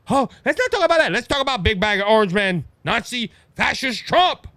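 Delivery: lightly mocked politician dodging the question; Kamala Harris. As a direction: brush it off, then hammer the name-calling. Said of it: "she's trying to say".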